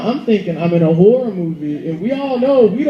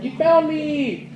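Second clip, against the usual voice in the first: put-on kid's gleeful shout; 8 semitones higher, much slower than usual. Girl jumps out, voiced.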